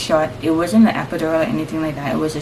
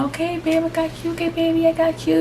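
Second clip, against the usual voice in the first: retold reassurance; 11 semitones higher than usual. Retold midwife reassuring labouring mother.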